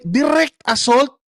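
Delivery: high, slow scoffing question; sarcastic disbelief. Real, not acted. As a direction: stretch it out in mockery. Mocking repeat, slowed.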